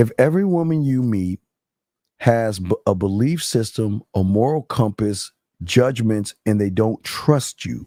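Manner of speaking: deliberately slowed delivery. Questioning a man addressed as sir: speaking slowly. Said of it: "I'll slow it down for you".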